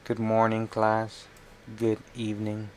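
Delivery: lightly mimicked bored teacher, little pitch movement; a hint of a weary teacher's monotone. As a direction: play at a bored class greeting. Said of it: "makes her sound like she's extremely bored".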